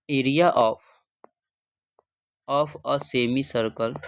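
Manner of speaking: "of a semi circle" drawn out word by word for copying; slow dictation. Shown as a demonstration. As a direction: dictate it slowly so pupils can write. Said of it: "area of semi circle".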